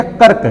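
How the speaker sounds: "कर्क" with र् joined directly to the final क; short "कर्क", no vowel between र् and क; half-R pronunciation. Shown as a demonstration. Teacher contrasting half R with full R, half-R pronunciation. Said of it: "ये आधा रॉ का उच्चारण है".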